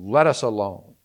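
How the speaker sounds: a loud cry, "Let us alone"; demon crying out. A narrator's reading. Pastor voicing the demon in the synagogue, loud cry. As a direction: cry it out loud as the possessed man. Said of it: "he cried out with a loud voice".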